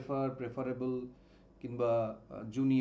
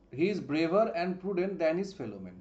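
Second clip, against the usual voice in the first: slow read; much slower than usual. Shown as a demonstration. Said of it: "যদি বলতাম".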